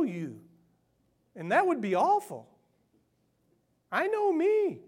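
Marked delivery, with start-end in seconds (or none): 3.9-4.8 amused. Real, not acted. Self-mocking confession.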